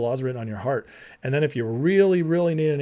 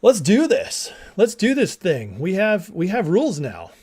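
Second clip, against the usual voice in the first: excited people; 3 semitones higher than usual. Retold or imitated. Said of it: "and they're like".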